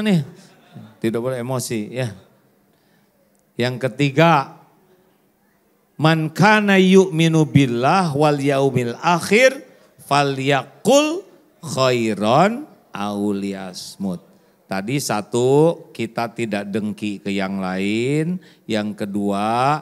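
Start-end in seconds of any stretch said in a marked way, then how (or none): 5.9-14.2 slow, measured Arabic recitation; hadith recitation. Real, not acted. Preacher quotes the hadith to the congregation, slow and solemn.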